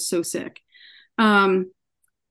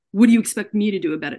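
quick, slightly raised mock yell; retold yell; 5 dB louder, faster than usual. Patient turning it back on the ER doctor, retold yell. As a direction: throw it back as a half-strength yell, fast. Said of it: "I yelled it at him".

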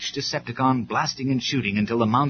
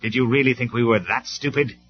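loud scornful rebuke; angry; 5 dB louder than usual. Acted. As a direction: scorn the traitor's lie. Optimus exposes the traitor.

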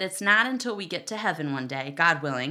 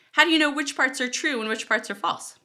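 exasperated; 8 semitones higher, 5 dB louder than usual. Acted. Exasperated rhetorical question.

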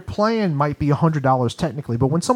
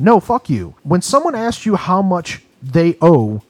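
loud, higher indignant outburst; fed up, voice raised in protest; heated rant; 4 semitones higher, 5 dB louder than usual. Real, not acted. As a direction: cut in with real exasperation. Heated rant about hidden fees.

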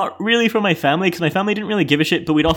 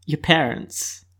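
slow, drawn-out list item; 4 dB quieter, much slower than usual. Real, not acted. Guest adding who to tell about the show, slowing down. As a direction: offer it slowly, running out of ideas. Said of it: "You're really slowing down on this".

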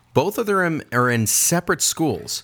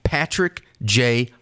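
low, measured letter-reading voice; lower-pitched impersonation of a grateful listener; letter writer's voice; 3 semitones lower than usual. Acted. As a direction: read it solemnly as the man who wrote it. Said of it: "do it in this guy's voice".

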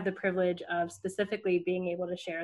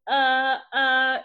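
flustered students; 5 semitones higher, 8 dB louder than usual. Retold or imitated. Students fumbling for an answer.

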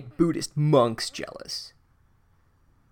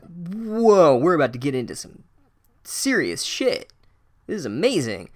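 awed excitement with a big opening "whoa"; excited; 3 semitones higher than usual. Retold or imitated. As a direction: retell it as amazed anticipation. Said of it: "I was so excited".

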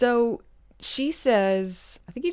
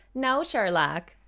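slow, drawn-out mock scolding; mock exasperated reply; 6 semitones higher, slower than usual. To Sherlock, a slow mock-exasperated scold. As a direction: spell it out slowly to Sherlock.

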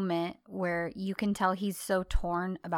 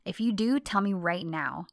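louder, fast pressing demand; demanding ultimatum; 5 dB louder than usual. Retold or imitated. John giving Sanem one last chance, loud and fast. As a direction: push her for the truth, last chance. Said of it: "He says".

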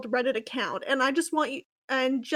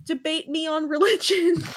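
mock screech; 3 semitones higher, 5 dB louder than usual. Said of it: "screeched articulately".

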